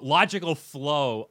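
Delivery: slow, drawn-out "logical flow" said in air quotes. Shown as a demonstration. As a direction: stretch "logical flow" slowly as if holding it in sarcastic quote marks.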